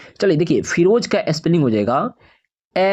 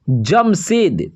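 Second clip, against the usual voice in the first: जमशेद stretched slow, syllable by syllable; slow dictation of जमशेद; drawn out slowly; much slower than usual. Shown as a demonstration. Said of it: "तो जमशेद का हो जाएगा".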